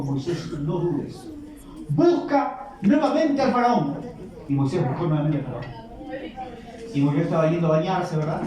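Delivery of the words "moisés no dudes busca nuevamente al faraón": slow, solemn command; voice of the Lord. Acted. The Lord reassuring Moses, slow and solemn. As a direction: speak slowly and gravely.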